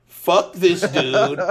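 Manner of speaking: slow, loud, dismissive brush-off; slow scornful brush-off. Retold or imitated. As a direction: wave the guy off, drawn out. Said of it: "I said".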